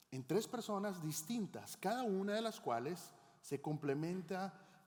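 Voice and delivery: tres personas distintas said slowly, each word weighed; slow, deliberate doctrinal emphasis; slow emphatic teaching. Shown as a demonstration. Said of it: "explicar esto un poquito más".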